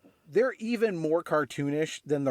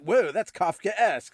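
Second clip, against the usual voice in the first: put-on slow, louder surfer-dude "Whoa, that's Kafka-esque" in a California surfer accent; 4 semitones higher, 4 dB louder, slower than usual. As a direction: ham up a dim California surfer using a big word in his accent. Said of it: "something along the lines of".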